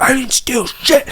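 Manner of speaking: put-on high, slow drunk denial; whiny drunk protest; mock drunk denial. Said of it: "he's like".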